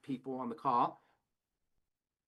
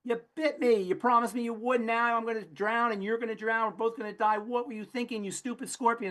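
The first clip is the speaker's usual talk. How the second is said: a betrayed frog yelling at the scorpion; angry frog; 6 semitones higher than usual. Acted. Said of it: "And the frog looks up and says".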